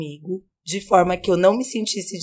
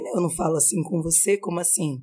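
quiet reproach; 2 semitones lower, 6 dB quieter, faster than usual. Retold or imitated. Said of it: "Eu falei".

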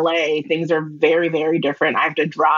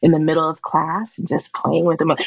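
sultry phone operator. Pretend. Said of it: "Can you do a little for us".

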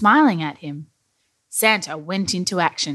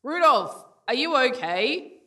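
higher-pitched, softened shout; calling out; 6 semitones higher, 3 dB quieter than usual. A narrator's reading. Santa calls to fallen Rudolph, mild storybook shout. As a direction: call out with concern, without real volume. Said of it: "Someone shouted".

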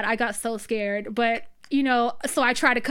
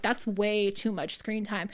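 changed stern voice; 3 semitones lower, 5 dB quieter than usual. Retold or imitated. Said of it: "her voice changed and she was like".

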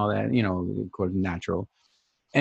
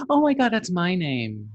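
higher mimicked gasp of surprise; retold astonished girl; 7 semitones higher than usual. Girl hearing the dog shares her name, mock astonished. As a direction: imitate her amazed outburst. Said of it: "she's like".

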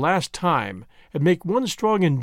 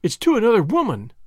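high, louder jealous cry; sharp jealous outburst; jealous accusation; 5 semitones higher, 3 dB louder than usual. Acted. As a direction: fling the accusation at him. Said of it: "she cried".

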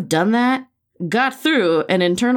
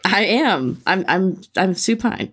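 winded after a long read; out of breath, catching air between words. Real, not acted. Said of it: "I'm catching my breath".

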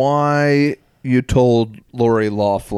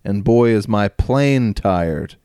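slow, deadpan comic opener; corny comic at the mic; stand-up opener delivery; slower than usual. Retold or imitated. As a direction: drag out the hack joke slowly. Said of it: "walk up to the microphone and say".

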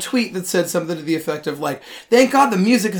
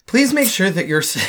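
flight attendant; 3 semitones higher than usual. Pretend. Mock flight announcement.

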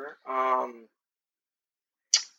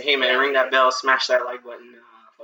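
influencer voice; slower than usual. Shown as a demonstration. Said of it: "you need to work on your influencer voice".

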